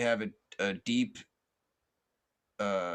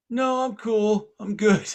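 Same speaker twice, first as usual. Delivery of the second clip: very high, loud acted holler; yelled refusal; 12 semitones higher, 10 dB louder, slower than usual. Man in pond turns down officer, yelling back. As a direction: shout a brush-off across the water.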